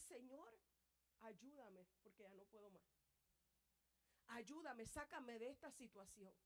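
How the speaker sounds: quiet desperate prayer; hushed pleading prayer. Acted. Voicing a broken prayer.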